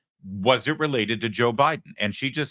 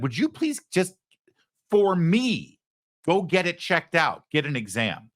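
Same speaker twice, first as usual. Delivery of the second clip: pleading spouse; 6 semitones higher than usual. Retold or imitated. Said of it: "your wife or your husband".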